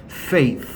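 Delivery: "faith" ending in a blown th; "faith" with tongue-between-teeth th at the end; th pronunciation. Shown as a demonstration. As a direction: model the final th of "faith". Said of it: "얘도 역시나 번데기 발음이에요".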